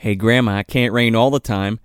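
lightly voiced low action-hero line; mock brooding hero. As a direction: drop low for a mock movie one-liner. Mimics brooding Crow-style movie line.

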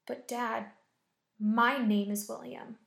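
a slow, shaken child's voice, lightly played; stammered in fear. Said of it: "he stammered".

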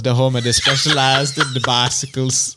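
shaky-skilled mock Jamaican ad read; badly faked Jamaican accent, sliding toward South African; attempted Jamaican accent. Host reading bike sponsor on request, botched Jamaican. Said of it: "I was supposed to South African".

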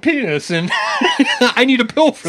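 mock ad line through laughter; giggling parody of a patient; laughing. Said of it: "they're just was like".

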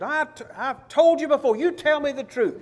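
high-pitched mock exasperation; exasperated king. Acted exasperated king scolding prophet.

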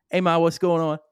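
loud, broad Long Island greeting; hearty mock Long Island accent. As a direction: imitate a Long Island son calling his ma. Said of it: "impersonate his Long Island accent".

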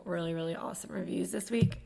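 rough morning voice; just woke up, morning voice. Real, not acted. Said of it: "this morning voice is real today".

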